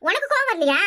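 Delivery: heated, exasperated complaint; worked-up scolding with swooping emphasis; indignant anger. Acted. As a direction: vent pent-up anger at her. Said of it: "எனக்கு அப்படியே கோவம்".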